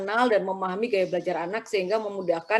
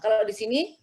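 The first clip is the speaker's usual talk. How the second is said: ordinary talk, nothing marked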